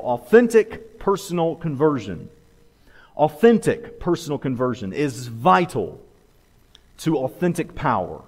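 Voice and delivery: "authentic" leaned on, then a measured fall; stress on authentic. Real, not acted. Preacher giving the note-takers his main point, stress on "authentic". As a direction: punch "authentic" each time, pausing between phrases. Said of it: "Emphasis on the authentic".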